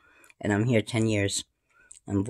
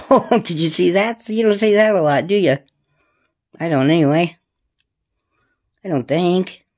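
cooing voice; 7 semitones higher, 7 dB louder than usual. Acted. Cooing at the birds.

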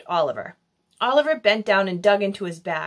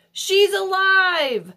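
amazed; 10 semitones higher, 3 dB louder, much slower than usual. A narrator's reading. Bystander excited exclamation.

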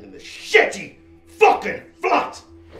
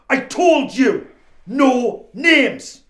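louder, scolding yell; angry shout; 3 semitones higher, 7 dB louder, much slower than usual. Acted. Mark yells at Darren for using names, angry. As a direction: bark it at your careless mate. Furious partner scolding in hideout.

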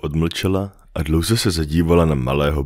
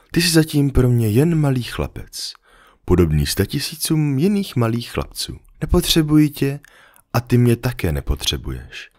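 a slightly higher, gentle fox voice; the fox patiently explaining to the little prince; lightly voiced fox; 4 semitones higher than usual. Fox gently explaining to the little prince, lightly higher voice.

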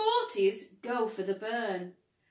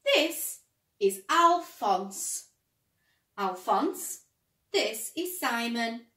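eager Ted; 7 dB louder, slower than usual. Acted. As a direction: pitch it up with excitement. Ted introduces a friend.

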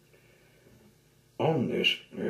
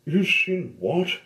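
surprised; 8 semitones higher, 6 dB louder than usual. Acted. Ivy surprised by answer.

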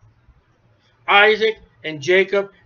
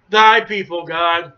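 retorting Moses; 4 dB louder, slower than usual. Retold or imitated. Moses answering God.

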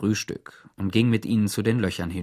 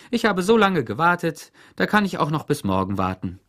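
bossy Warden; 7 semitones higher, 4 dB louder than usual. A narrator's reading. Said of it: "sagte die Chefin".

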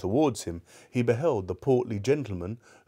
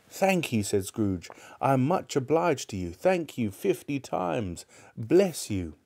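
overflowing gratitude; grateful Scrooge; 3 semitones higher than usual. Acted. Scrooge thanks him effusively.

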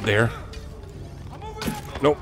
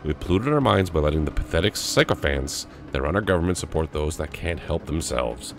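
lower, measured document reading; reading aloud; 3 semitones lower than usual. Acted. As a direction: read the manifesto out evenly, pitch settling low. Reads an in-game note aloud.

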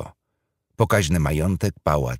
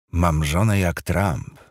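proud thought; slower than usual. Acted. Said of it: "pomyślał Thomas z dumą".

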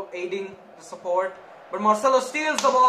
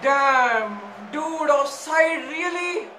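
frustrated disbelief; 7 semitones higher, 4 dB louder, much slower than usual. Real, not acted. Offside again.

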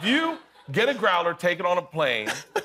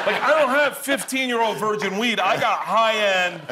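laughing; 5 semitones higher than usual. Real, not acted. Laughing punchline.

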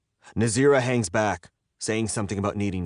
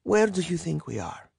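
amused retort; 9 semitones higher than usual. A narrator's reading. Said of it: "she laughs".

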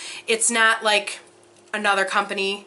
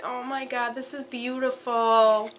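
ordinary talk

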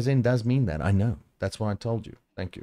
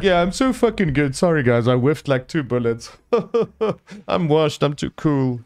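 mock bragging; 3 semitones higher than usual. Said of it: "can everyone just relax with, like".

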